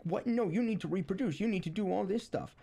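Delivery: high, disbelieving mock outrage; incredulous. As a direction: squawk it back in disbelief. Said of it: "And they're like".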